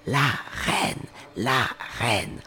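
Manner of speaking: urgent cry of the gardener; mock alarmed shout. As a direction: warn that the queen is coming. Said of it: "s'écria".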